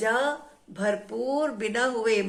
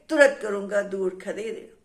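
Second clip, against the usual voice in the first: lower angry threat; 2 semitones lower than usual. Acted. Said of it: "गुस्से में वो जो है हवा पर नाराज हो गया".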